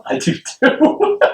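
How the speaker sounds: breathy whispered aside; hushed agreement. Real, not acted. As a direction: whisper it conspiratorially.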